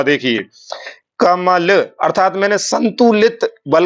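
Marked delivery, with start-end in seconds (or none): 1.2-1.7 "कमल" with even weight on all syllables; evenly stressed, connected "कमल"; svarita, balanced stress. Shown as a demonstration. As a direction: keep क, मा and ल balanced, none pushed. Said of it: "अब मैं स्वरित करूंगा".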